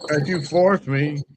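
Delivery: slow, drawn-out imitation of Val; imitating Val. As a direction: stretch it out slowly like Val does. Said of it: "Sound like Val when you do it".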